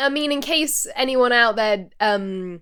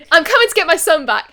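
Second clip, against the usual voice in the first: mock angry phone line; 6 semitones higher, 7 dB louder, faster than usual. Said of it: "He goes".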